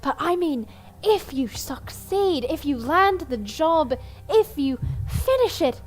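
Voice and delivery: a hint of a showy performer; bard NPC voice.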